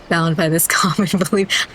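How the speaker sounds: words broken by a real laugh; cracking up partway through the line; laughing mid-line. Real, not acted. Reading the oath aloud, breaking into laughter.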